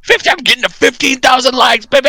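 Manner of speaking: high, bright cheer over the milestone; excited. Real, not acted. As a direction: call it out like a win. Excited announcement of likes.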